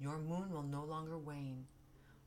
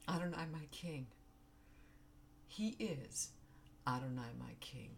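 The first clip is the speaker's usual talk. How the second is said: crying; 3 semitones lower than usual. Real, not acted. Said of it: "I didn't mean to cry".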